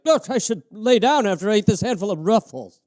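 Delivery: lightly voiced stoned guy; sleepy, lazy mock stoner.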